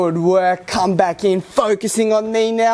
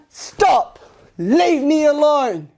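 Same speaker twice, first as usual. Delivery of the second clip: loud command; 5 semitones higher, slower than usual. Shown as a demonstration. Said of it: "we need to yell it as loud as we can".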